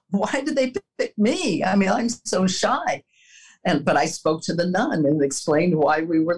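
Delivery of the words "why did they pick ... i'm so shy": higher-pitched, mildly dismayed retelling; dismayed protest. Retold or imitated. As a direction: retell a shy girl's reluctant protest. Retells shy girl's dismayed reaction.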